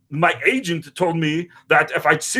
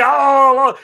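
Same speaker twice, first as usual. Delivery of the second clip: mock shout; 6 semitones higher, 6 dB louder than usual. Retold reaction to Terry Crews.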